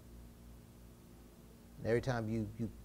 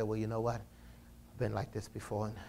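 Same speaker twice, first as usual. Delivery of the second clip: compromising believer. Retold or imitated. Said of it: "start compromising and say".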